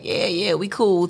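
slow, half-hearted mock truce; fake friendliness. Retelling two rivals' staged peace, fake friendliness. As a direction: play at being cool with each other. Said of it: "a fake little".

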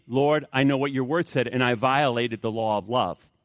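lightly acted prayer of confession; subdued, falling confession. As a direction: admit it humbly to the Lord. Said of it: "to confess means".

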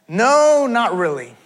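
mock-incredulous no, easing down; skeptical rebuttal. Pastor answering people who blame persecution for job loss, skeptical. Dismissing a retold persecution claim.

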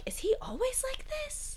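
high, breathy whispered question; a hushed aside. Retold or imitated. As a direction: whisper it in mock disbelief. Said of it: "and you were like".

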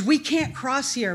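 mild yell retold from memory. Sister warning at the river, mildly yelled. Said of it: "all I yelled out was".

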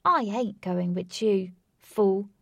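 slow, loud and assertive. Retold or imitated. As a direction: lay it down firmly, mate. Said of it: "in his words".

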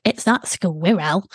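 slow mock correction of squirrel; slowly voiced It's not squirrel; husband's correction. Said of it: "he was like".

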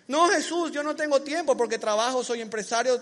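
high, loud protesting excuse; a businessman excusing himself to Jesus, loud; busy man's excuse. Acted.

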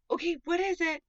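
high, loud, eager character voice; eager elephant. Acted. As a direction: burst out with impatient curiosity. Eager elephant asks about surprise.

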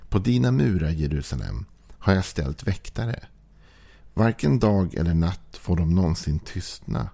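measured, solemn Bible reading; scripture reading. Acted. Pastor reading Isaiah to the congregation, solemn reading. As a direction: lift the verses off the page. Reads Isaiah aloud in sermon.

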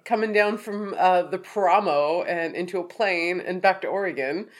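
blocked nose from a sinus infection; stuffed-up nose. Real, not acted. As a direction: talk through head congestion. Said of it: "sound a little stuffed up".

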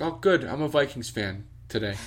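imitating mom picking the other team; teasing mom. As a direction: needle him on purpose. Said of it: "She'd be like".

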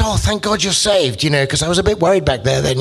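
hammed-up relief from a lazy friend; Belacqua's relief. Belacqua tells Dante he'd worried for him, mock relief. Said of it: "and he says".

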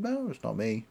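understated, unbothered retold denial; composed little sister's denial; cold denial. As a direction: coolly brush off the accusation. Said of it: "the coldness of it".

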